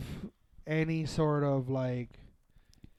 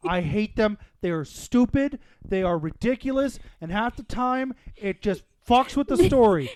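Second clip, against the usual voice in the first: angry rant; 3 semitones higher, 6 dB louder than usual. Real, not acted. Rant about direct-to-DVD movies.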